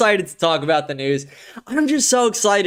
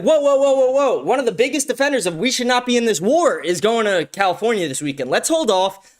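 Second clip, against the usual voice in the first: mock-panicked Iranian regime pulling back; mock alarm; 5 semitones higher than usual. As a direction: play the regime slamming on the brakes. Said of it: "And then they were like".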